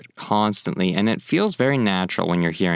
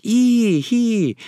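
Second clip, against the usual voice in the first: very high, louder double squeal; shocked squeal; 13 semitones higher, 4 dB louder than usual. Shown as a demonstration. Teacher showing how teenage girls react, squealing. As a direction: shriek it in grossed-out shock. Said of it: "kinda like that".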